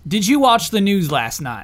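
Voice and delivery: slow Kansas accent; dry Southern Kansas speech, drawn out. Shown as a demonstration. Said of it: "So K-, Kansas".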